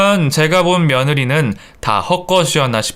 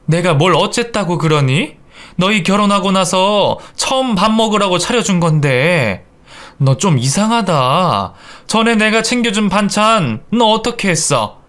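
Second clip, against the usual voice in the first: lightly voiced indignant elder, higher; affronted mother-in-law; 5 semitones higher than usual. Mother-in-law asking about side dishes, affronted. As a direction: defend yourself, then question suspiciously.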